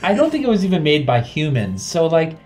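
high, loud giggly talk; laughing while talking. Real, not acted. Player laughing through answer.

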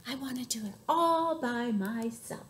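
"all by myself" spaced out for emphasis; determined little elephant. A narrator's reading. Little elephant refusing the snake's help, determined. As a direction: lean on "all" and insist.

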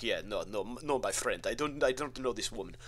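a deliberately bad Ukrainian accent, brushed off quickly; terrible Ukrainian accent. Ukrainian man at the door denying knowing her, bad mock Ukrainian accent. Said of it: "terrible Ukrainian accent out of me there".

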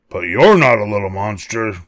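howled. Acted. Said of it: "they howled".

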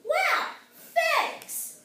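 high, loud little exclamations; delighted relief. Acted. Little goat is let go.

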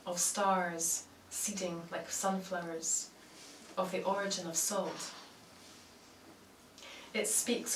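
measured recital with long pauses between phrases; poetry reading. Acted. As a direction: let each image land, then pause. Reads own poem aloud.

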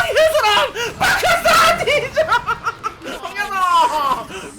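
high-pitched laughing shout; 흥분한 고함. Real, not acted. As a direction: shriek with glee as the hit lands. 스킬이 맞은 순간. (웃음 섞인 높은 고함)

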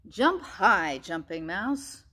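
loud commanding call. Acted. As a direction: order it firmly. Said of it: "commanded Magic Frog".

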